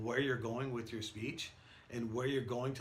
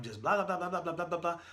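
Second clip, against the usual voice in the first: fast, run-together babble; rushing speech; 4 semitones higher, faster than usual. Shown as a demonstration. Showing students how rushed talk turns to noise, fast babble. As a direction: race through it like your mouth outruns your brain. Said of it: "Sometimes I get ahead of myself".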